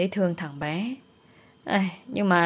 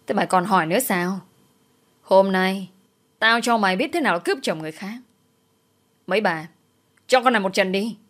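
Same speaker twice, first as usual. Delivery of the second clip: lightly voiced shrill-free scolding woman, fast in places; angry mistress-hunting wife. Wife accusing Vi in the street, mild angry scolding. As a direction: snap at her like a jealous wife.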